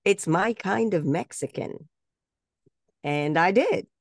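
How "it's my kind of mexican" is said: slow, higher-pitched ad tagline; audition line read. Retold or imitated. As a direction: deliver the slogan slowly, pitched up. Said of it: "I was supposed to say".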